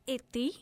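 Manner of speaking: Ithi said as IH-thee; name pronunciation demo. Shown as a demonstration. Guest shows interviewer how to say her name, Ithi as IH-thee, pronunciation demo. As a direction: show how Ithi sounds, lifting at the end. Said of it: "do you want me to pronounce it".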